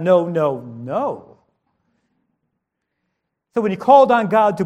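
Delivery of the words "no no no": lower, stern string of noes, sinking at the end; mock really mad. Really mad parent to child, mock-stern. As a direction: act the fed-up parent, voice dropping low. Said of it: "if you're really mad".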